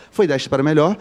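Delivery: "foi desta para melhor" said gently as the kinder option; tactful euphemism; softened phrase. Shown as a demonstration. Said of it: "Então eu vou falar".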